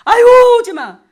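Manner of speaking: very loud, high mock wail; acted rejection. Wife fending off husband at night, shrill exaggerated refusal. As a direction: shriek him away, hammed up for laughs.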